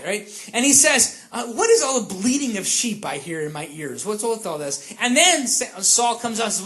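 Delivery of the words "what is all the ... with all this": a touch of cynical questioning. Acted. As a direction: question it with understated sarcasm. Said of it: "he's a cynical guy".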